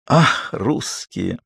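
dreamily. A narrator's reading. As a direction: drift off into a reverie. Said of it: "мечтательно произнёс он". (мечтательно, протяжно)

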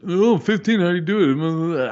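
high mock-incredulous whine; mocking critic. Mocking his league-count critics in a high whine. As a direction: sneer at the people who doubt him. Mocking people who question him.

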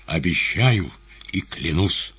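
grave, ceremonial promise; solemn oath; solemn vow. A narrator's reading. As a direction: swear it solemnly. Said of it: "торжественно произнёс Иван".

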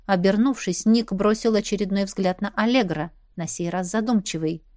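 usual speaking voice

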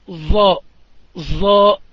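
ظاء said loud with a z coloring; demonstrating ظاء with zay coloring; zay-tinted letter. Shown as a demonstration. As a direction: push a buzzing z into ظاء. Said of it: "هكذا يقرؤون".

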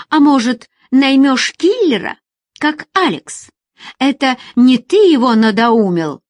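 high, loud, biting; wounded woman strikes back at Asim; furious accusation. Acted. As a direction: hurl the accusation. Woman lashing out.

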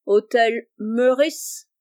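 put-on very slow, drawn-out English-accented French; solemn English accent. Monsieur Abel posing as an Englishman at the grocer's, solemn English accent. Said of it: "avec un accent anglais très prononcé et très solennel".

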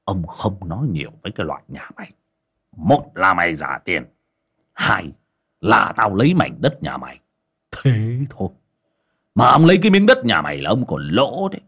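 cold, dismissive tyrant laying down terms; scornful landlord naming his price; arrogant moneylender. Acted. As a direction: threaten him like he is dirt. Moneylender threatens to take land.

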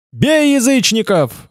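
high, drawn-out rallying cry at moderate volume; narrated battle cry. A narrator's reading. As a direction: raise the pitch and stretch it like a restrained war cry. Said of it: "заорал Томас".

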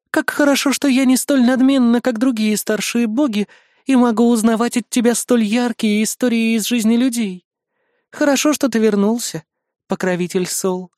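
high, languid goddess voice; gracious icy goddess, pleased. Acted. Goddess praises Sol.

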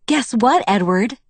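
bright voice. Acted. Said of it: "I asked in a bright voice".

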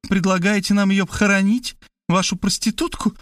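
high, incredulous, scornful questions; rude challenge. A narrator's reading. Markhalyova to the narrator about burying the girl, rudely. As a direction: throw the question in his face. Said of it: "грубо прервала меня Мархалёва".

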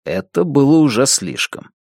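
ordinary delivery

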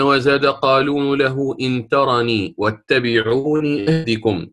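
slow, measured chanting of a verse; didactic verse recital. Shown as a demonstration. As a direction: draw out the long vowels of the poem. معلم ينشد بيت المنظومة. (إنشاد متأن لبيت من المنظومة)

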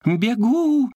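high, loud call; shouted reply. Acted. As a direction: yell back on the run. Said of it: "ответил моллюск". (громкий высокий крик)

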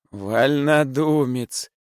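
high, loud, slow outcry; shouting. A narrator's reading. Prokharchin shouting to stop the rising clamour, loud. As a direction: shout him down, dragging each word. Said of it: "закричал господин Прохарчин".

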